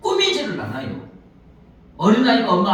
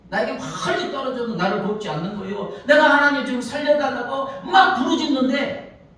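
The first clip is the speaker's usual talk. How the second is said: complaining prayer; 5 semitones higher than usual. Retold or imitated. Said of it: "하나님께 원망하는 거예요".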